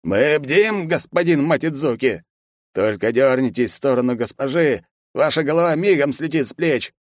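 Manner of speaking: guard warns the hero to keep away; threatening guard. A narrator's reading. (угрожающе)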